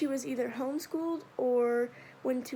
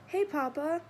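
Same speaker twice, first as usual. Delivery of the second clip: a touch of eager greeting; mild excitement; 4 semitones higher than usual. Acted. Boy greeting his father at home, mildly excited. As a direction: run in happy to greet him. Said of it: "I say in excitement".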